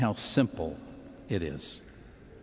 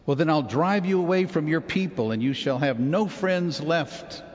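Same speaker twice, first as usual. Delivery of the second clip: angry emperor; 5 semitones higher than usual. Retold or imitated. Angry emperor threatens the saint.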